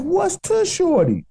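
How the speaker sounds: high, slow, heavy Chicago drawl; thick Chicago accent. Retold or imitated. Imitating an ex-Knick's thick Chicago accent, high and slow. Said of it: "he got it bad".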